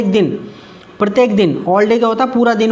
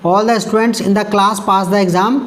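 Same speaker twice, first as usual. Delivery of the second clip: slow, careful dictation of the example sentence; slow read-aloud; much slower than usual. Shown as a demonstration. Teacher reading the example sentence slowly to students. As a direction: read it out word by word for the class.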